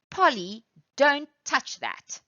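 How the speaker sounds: high, loud warning to Polly; warning call. Shown as a demonstration. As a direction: call it out sharp to stop her. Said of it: "warning Polly to not touch".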